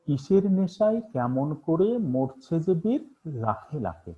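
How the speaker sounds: slow recited line with pauses between phrases; poem recitation. Shown as a demonstration. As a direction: recite it like a poem, pausing at each break. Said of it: "স্বরভঙ্গিটা কয়েকবার change হচ্ছে". (ধীরে, থেমে থেমে কবিতা আবৃত্তি)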